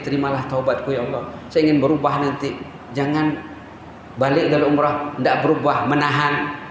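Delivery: low, soft pleading prayer; a hint of weeping as he begs; tearful prayer. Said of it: "dia menangis". (doa sayu dengan suara rendah)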